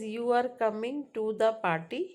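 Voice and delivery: "You are coming to the party" rising at the end; question intonation. Shown as a demonstration. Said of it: "So that's a question".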